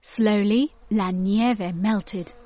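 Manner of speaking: ordinary delivery, nothing marked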